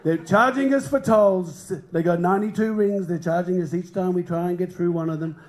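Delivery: light comic presidential impression; Donald Trump. Comic playing a president taxing planets, light impression. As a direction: lightly mimic a grumbling politician. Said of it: "Starts implementing tariffs".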